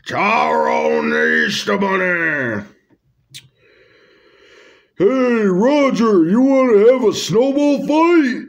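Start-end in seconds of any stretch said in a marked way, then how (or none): 5.0-8.4 lightly put-on cool-guy voice, a bit higher; a hint of a laid-back dude voice; Tyrone's voice. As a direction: play a swaggering bunny inviting a friend. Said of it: "I don't know if that's how he, how people like that talk".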